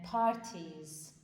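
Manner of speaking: پارتیز read out slowly as a model; German example word. Shown as a demonstration.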